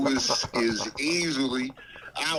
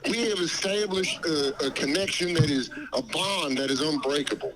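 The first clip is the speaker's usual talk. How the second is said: Dave Chappelle voice. Pretend. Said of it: "You sound just like him".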